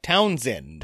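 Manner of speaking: put-on drawn-out Cary Grant accent; weird, put-on Cary Grant accent. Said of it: "I started talking really weird".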